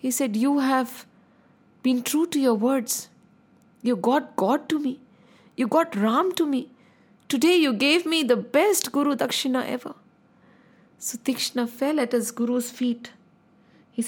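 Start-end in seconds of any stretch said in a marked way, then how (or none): 0.4-9.9 tender. Acted. Guru moved, blessing disciple.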